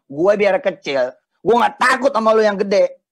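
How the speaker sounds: slow, loud defiant boast; wrong version. Shown as a demonstration. Replaying the wrong line to the audience, loud brag. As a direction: say it like a cocky bluff. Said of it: "Tadi omongannya gini".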